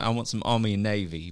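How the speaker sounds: amateur attempt at Cockney; lightly put-on Cockney accent. Shown as a demonstration. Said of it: "if I talk in this accent".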